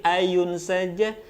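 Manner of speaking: slow "ayun saja" with lengthened vowels; swung delivery. Shown as a demonstration. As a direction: swing "ayun saja" gently and slowly. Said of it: "Jadi cukup kalau ada ayu".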